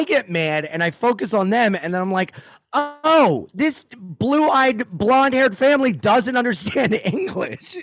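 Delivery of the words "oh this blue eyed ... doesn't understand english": high, sneering mock narration with a laugh. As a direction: jeer at the family from the stage. Mocking the tourist family.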